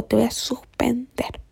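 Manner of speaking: slow whispered threat; stern hushed threat. Retold or imitated. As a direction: threaten quietly and slowly. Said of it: "me dijo". (amenaza lenta y susurrada de la profe)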